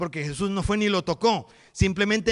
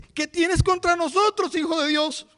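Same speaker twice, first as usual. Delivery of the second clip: much higher, slow, eerie demonic voice; 9 semitones higher than usual. Acted. Demons in the possessed man facing Jesus, eerie demonic voice. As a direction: let the demons shriek out slowly.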